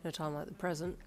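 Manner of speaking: cool and understated; calm. A narrator's reading. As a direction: answer unruffled. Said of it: "he replied calmly".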